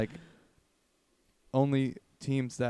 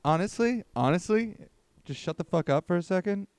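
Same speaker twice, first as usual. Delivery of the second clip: higher, louder fed-up outburst; exasperated yelling; 6 semitones higher, 5 dB louder than usual. Real, not acted. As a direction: tell him to shut up, loud and high. Friend cuts off rambling.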